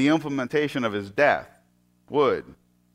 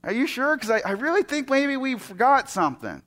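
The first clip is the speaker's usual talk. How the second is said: put-on higher, hesitant boy's voice; Isaac pressing; 8 semitones higher than usual. Son asking his father again, hesitant. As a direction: push gently without doubting dad.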